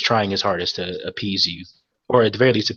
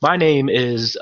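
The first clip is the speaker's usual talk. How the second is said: flustered, tripping over the words; an anxious man rushing to apologise; lightly voiced nervous dockmaster; stumbling over himself. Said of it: "he's, like, stumbling over himself".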